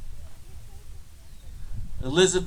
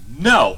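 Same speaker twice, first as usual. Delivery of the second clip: a firm, louder "No." hit hard; emphatic no; 6 semitones lower, 5 dB louder than usual. Acted. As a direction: land "No." like a wall. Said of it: "We say emphatically".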